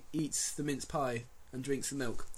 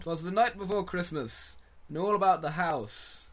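poem recitation; 4 semitones higher than usual. Shown as a demonstration. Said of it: "to quote the ancient poem".

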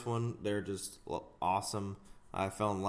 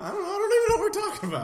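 laughing; 8 dB louder, much faster than usual. Real, not acted. Cracking up at own joke.

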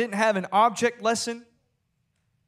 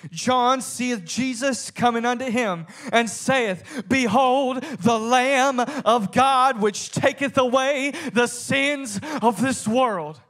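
raised, emphatic preacher's reading; declaimed scripture; 3 semitones higher, 3 dB louder than usual. Acted. Preacher reading John one twenty-nine aloud, emphatic declamation. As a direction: proclaim the verse with weight.

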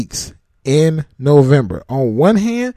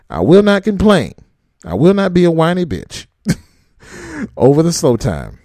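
mock oath; 2 semitones higher than usual. Shown as a demonstration. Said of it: "I want you to swear".

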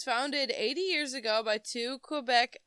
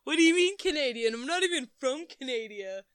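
mock indignation; 4 semitones higher, 5 dB louder than usual.

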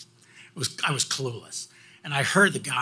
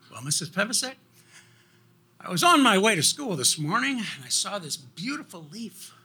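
higher, sing-song schoolboy storytelling; earnest boy's excuse; 5 semitones higher than usual. Retold or imitated. Pupil explaining a lost assignment to teacher, earnestly inventive. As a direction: act out a pupil spinning a tall excuse.

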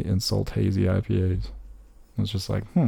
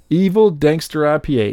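announcer read; 7 semitones higher, 5 dB louder than usual. Pretend. Reads beer name aloud theatrically.

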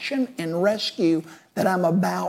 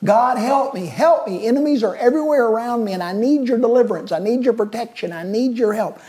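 crying out to God; 4 semitones higher, faster than usual. Retold or imitated. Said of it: "he's crying out to God".

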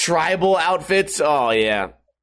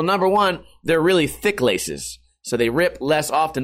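ordinary delivery

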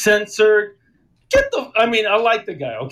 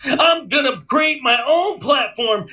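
heated rant; 5 semitones higher than usual. Retold or imitated. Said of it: "he goes like this".

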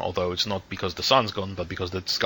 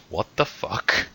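put-on young guy; slower than usual. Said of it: "looks at you and goes".

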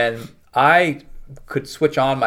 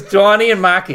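put-on high, loud Boston accent; aliens' names in hammed-up Boston speech; joke Boston accent; 7 semitones higher, 7 dB louder than usual. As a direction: play up the Boston vowels, raised and loud. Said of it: "communicate is through Boston accents exclusively".

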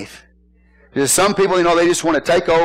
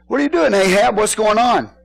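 higher-pitched demanding wife; Jezebel; 5 semitones higher than usual. Acted. Jezebel confronting sulking Ahab, mean and demanding. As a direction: demand answers from a sulking husband. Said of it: "She's a mean old woman".

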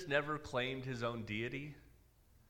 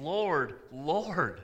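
LORD, LORD, each one higher and louder; a raised, emphatic cry of "Lord"; emphatic confession; 3 semitones higher, 4 dB louder than usual. Retold or imitated. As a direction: stress both words, "Lord, Lord", falling firmly on each. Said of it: "And they're doing it emphatically".

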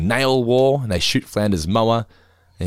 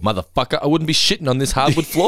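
lightly acted sassy retort, pitch raised; indignant comeback; 5 semitones higher than usual. Scolded dog back to his sitter, indignant. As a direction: play the affronted dog talking back.

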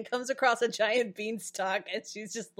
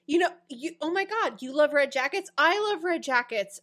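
excited; 4 semitones higher than usual. Retold or imitated. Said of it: "She's like".

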